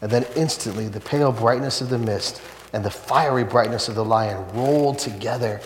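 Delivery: put-on a read-aloud of a children's book, lifting with wonder as the light grows; story reading. The preacher reads the lion scene aloud to the congregation, with rising wonder. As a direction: read it like a sermon passage full of awe.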